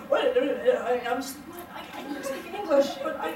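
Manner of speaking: lightly mocked Scottish accent. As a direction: imitate a halting, muddled Scottish accent in a bar. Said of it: "Mostly the Scottish accent sounds like".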